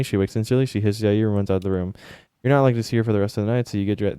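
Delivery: steady narration of a game scene; story narration. Acted. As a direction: read the dream like a storyteller.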